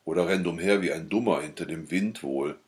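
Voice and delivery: ordinary delivery, nothing marked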